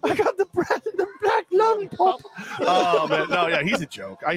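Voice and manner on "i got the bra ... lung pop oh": put-on high, slow sickly child; wheezy little Tim voice; Tiny Tim voice.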